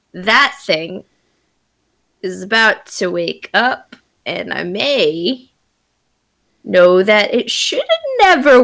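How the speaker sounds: slightly gruff, unhurried beast-folk voice; gruff were-tiger voice. Acted. Transformed tiger warns companions the thing may wake, gruff. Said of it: "more of a gruff voice".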